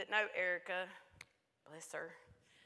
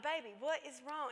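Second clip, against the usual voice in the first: put-on higher-pitched coaxing of an upset child; patient mother; 5 semitones higher than usual. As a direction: gently press your child for an answer. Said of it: "I'm gonna be patient".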